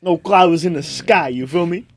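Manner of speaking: mock Jersey Italian small talk; Italian Jersey accent. Chatting to a neighbour about weather, mock Italian Jersey accent. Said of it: "some wicked Italian Jersey accent".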